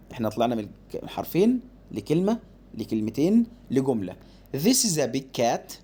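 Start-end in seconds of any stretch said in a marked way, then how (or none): 4.5-5.7 slow, word by word; slow reading. Shown as a demonstration. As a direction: read it slowly for the child. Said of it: "هقرا بالراحه". (قراءة بالراحة)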